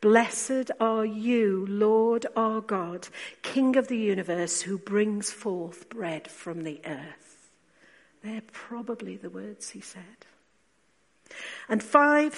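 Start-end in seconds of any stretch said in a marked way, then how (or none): 0.0-7.5 slow, solemn intoned blessing; lightly voiced Jesus giving thanks. Preacher voicing Jesus blessing bread, slow and solemn. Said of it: "would probably have said". 8.2-10.3 hushed aside; whisper. Real, not acted. Preacher to congregation, a whispered aside.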